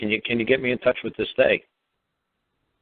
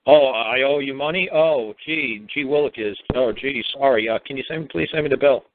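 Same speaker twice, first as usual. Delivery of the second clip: lightly voiced naive innocent, gee willikers; mildly hammed-up play-dumb voice; a hint of a clueless caller playing stupid. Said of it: "You say ... play stupid".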